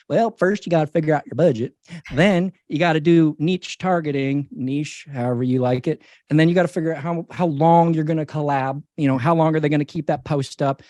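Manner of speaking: put-on lightly Southern-accented marketer. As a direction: slip into a mild Southern twang. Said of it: "I just became Southern".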